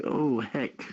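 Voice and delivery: normal talking voice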